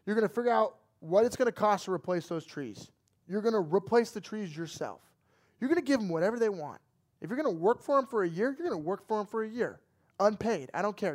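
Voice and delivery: lightly voiced dad giving an ultimatum; stern dad. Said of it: "and he says".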